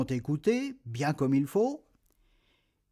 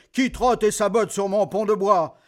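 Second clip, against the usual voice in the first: troll; 3 semitones higher, 4 dB louder than usual. Acted. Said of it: "dit le troll".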